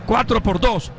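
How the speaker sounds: excited radio play-by-play. Real, not acted. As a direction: call the fly ball to the wall.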